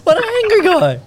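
high loud laughing cry; laughing shout. Real, not acted. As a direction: shriek it through laughter.

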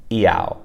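"iao" from an ee sound into froggy ao. Shown as a demonstration. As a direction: start "iao" on ee, then slide into ao. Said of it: "transition into that froggy A O".

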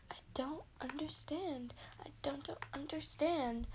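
whispered undead moaning; zombie moan. Pretend. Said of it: "to do zombie noises".

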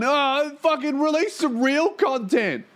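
high, slow, mocking fan voice; nagging fan demanding real content; mock whiny fan. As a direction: imitate an entitled viewer whining. Mocking a demanding audience member.

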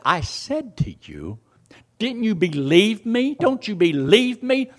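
high, pressing questions; reproachful challenge. Retold or imitated. Preacher as Jesus questioning Martha's belief, reproachful challenge.

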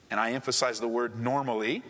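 low aside underlining "normally"; stress on normally. Real, not acted. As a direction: drop the pitch but point up "normally".

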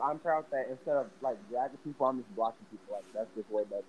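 muffled, far from the mic. Real, not acted. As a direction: voice through a wall. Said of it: "You sound muffled".

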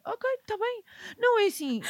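high, giggly voice, barely holding it together; laughing. Real, not acted. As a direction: try to speak while cracking up. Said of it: "eu estou a rir".

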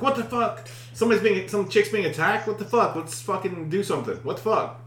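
high-pitched mock alarm; startled panic. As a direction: re-enact a bewildered, panicked wake-up. Acts own startled reaction on waking.

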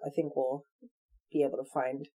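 words stretched by a yawn. Real, not acted. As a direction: talk through a yawn. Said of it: "I'm yawning over here".

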